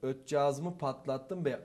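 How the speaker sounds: put-on slow, clumsy mix of eastern and Thracian accent. Nervous student reading the line in mixed accent. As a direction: drag out Ötcağızımı in a muddled Thracian accent. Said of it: "Onun Trakya şeyle".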